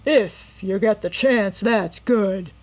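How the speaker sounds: mock her words back; mocking echo. A narrator's reading. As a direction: robber mocking Nancy's threat. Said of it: "laughed mirthlessly".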